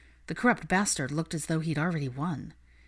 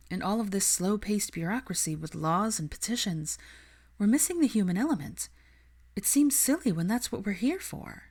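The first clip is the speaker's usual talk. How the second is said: higher, earnest and idealistic; higher voice, passionate young woman; Hermione's voice; 4 semitones higher than usual. Acted. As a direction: plead the cause with conviction. Hermione explains to Kingsley.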